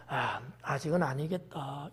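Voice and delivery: low, soft doubting aside; hesitant doubt. Acted. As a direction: murmur it as a private doubt. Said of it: "이러는데". (낮고 작게 주저하는 혼잣말)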